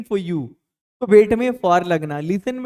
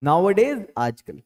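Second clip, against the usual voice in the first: slow model phrase; slower than usual. Shown as a demonstration. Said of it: "तो फिर हम बोलेंगे nowadays".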